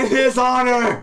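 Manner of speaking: high, loud triumphant cheer. Acted. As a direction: shout it like a toast. Table cheers the sendoff.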